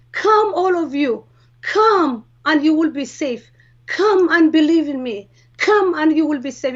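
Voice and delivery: mildly lifted voice, beckoning a crowd; loud but gentle call. Retold or imitated. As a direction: call everyone in, firmly but kindly. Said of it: "so loud, but so gentle".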